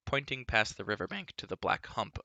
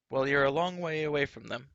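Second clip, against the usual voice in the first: louder, higher mocking retort; crying out; 5 semitones higher, 6 dB louder than usual. A narrator's reading. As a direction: fling it at him. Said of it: "Elenwy cried".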